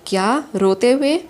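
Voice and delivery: mildly startled, rising sharply at the end; surprised question. Acted. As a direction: ask it in disbelief, pitch lifting. Startled question at news of crying. (हैरानी भरा सवाल)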